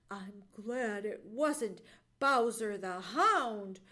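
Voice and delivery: low, slow character voice; low, measured Johnny Chuck; muttering woodchuck. A narrator's reading. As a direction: grumble it slowly, low in pitch. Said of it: "muttered Johnny Chuck".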